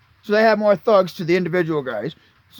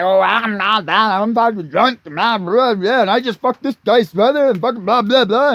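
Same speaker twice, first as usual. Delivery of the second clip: mock drunk kid; 3 semitones higher, 3 dB louder, slower than usual. Mocking drunk twenty-year-old.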